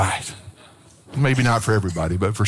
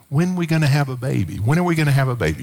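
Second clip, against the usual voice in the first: wife's teasing line; faster than usual. Retold or imitated. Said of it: "Sharon had this little saying".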